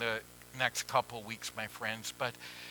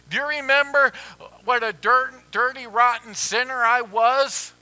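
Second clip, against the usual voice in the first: much higher and louder cry; anguished plea; 10 semitones higher, 11 dB louder than usual. Retold or imitated. Sinner cries out his shame to the Lord, high and loud.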